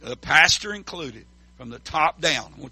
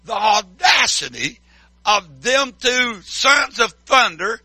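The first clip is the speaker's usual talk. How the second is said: grumbling disciples; 3 semitones higher than usual. Retold or imitated. Preacher voicing jealous disciples griping. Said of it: "And they said".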